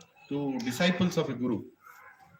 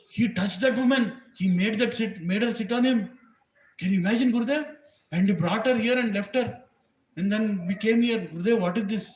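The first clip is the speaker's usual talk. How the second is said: indignant tattling; 5 semitones higher, 3 dB louder than usual. Acted.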